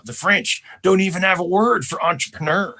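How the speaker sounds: put-on lightly drawled Texas accent; a touch of presidential Texas twang; George Bush. Comedian quoting the president he imitates, light Texas accent. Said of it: "who talked with that Texas accent".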